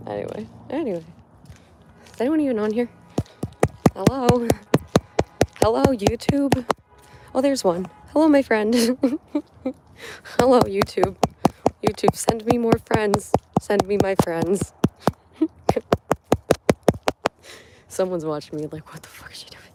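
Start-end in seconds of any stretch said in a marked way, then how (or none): 2.1-14.7 loud cheerful hello; calling out. Real, not acted. Calling out to stream viewers. 18.9-19.6 breathy whispered aside; whispering. Retold or imitated.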